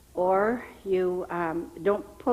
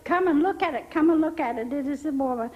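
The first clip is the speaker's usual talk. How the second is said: yelled out; 7 semitones higher, faster than usual. Retold or imitated. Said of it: "he yelled out to the rest".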